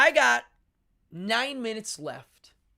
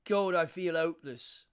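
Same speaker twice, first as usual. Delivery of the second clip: Cockney demo, dropping the H; Cockney accent; 4 dB louder than usual. Shown as a demonstration. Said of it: "hopeless would be in Cockney".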